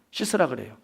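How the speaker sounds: ordinary talk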